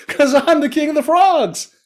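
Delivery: very high, drawn-out brag; slow, squeaky storybook frog; boastful frog. A narrator's reading. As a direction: proclaim it like a tiny king.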